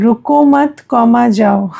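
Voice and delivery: रुको मत run together, comma named before जाओ; pause after मत. Shown as a demonstration. Teacher reading the comma aloud for students, pause after मत. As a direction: join रुको to मत, break, then जाओ.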